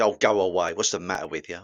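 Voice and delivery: firmer, annoyed brush-off; mildly aggressive dismissal; upset, almost aggressive. Shown as a demonstration. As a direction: push them away with real irritation. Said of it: "you can tell that that person's upset".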